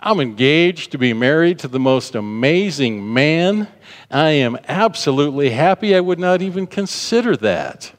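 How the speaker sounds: confident, closing-the-door tone rising high; a happy, emphatic no; firm, proud refusal. Shown as a demonstration. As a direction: shut him down with joyful certainty. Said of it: "it's like".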